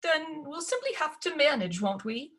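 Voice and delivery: high mother voice that falters and fades; faltering. Acted. Stepmother falters trying to reassure the girls. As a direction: trail off unsure. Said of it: "faltered stepmama".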